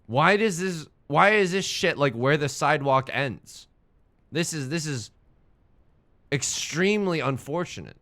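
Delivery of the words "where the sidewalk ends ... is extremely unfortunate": ordinary delivery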